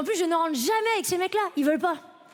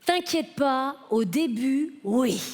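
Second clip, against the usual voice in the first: mock laid-back; 3 semitones lower, much slower than usual. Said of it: "mais détendu comme jamais".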